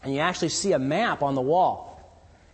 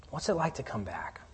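whisper; 4 semitones lower, 9 dB quieter than usual. Real, not acted. Intimate question to the congregation.

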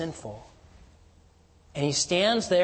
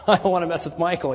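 laughing; 3 semitones higher, 6 dB louder, faster than usual. Real, not acted.

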